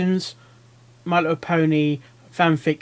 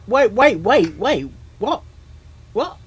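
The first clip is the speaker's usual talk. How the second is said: alarmed; 4 semitones higher than usual. Real, not acted. Shocked by the story twist.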